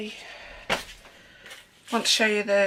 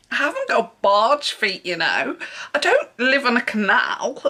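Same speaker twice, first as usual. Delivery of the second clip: laughing; 2 semitones higher, 5 dB louder than usual. Real, not acted. Retelling her comeback to the shop girl, still chuckling. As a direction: still chuckling, a bit steadier. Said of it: "Oh my God, I'm crying".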